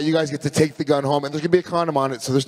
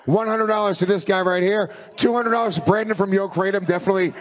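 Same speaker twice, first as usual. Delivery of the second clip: auctioneer calling bids; 4 semitones higher than usual. Pretend.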